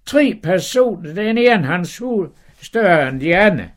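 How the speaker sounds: high, astonished exclamation; surprised wife. Acted. Wife spotting three strangers, high and amazed. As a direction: gasp out who the strangers are.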